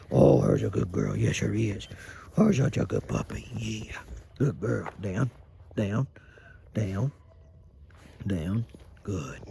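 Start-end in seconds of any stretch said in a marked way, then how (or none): 0.1-3.5 squeaky praising a dog. Real, not acted. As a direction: coo over a good puppy.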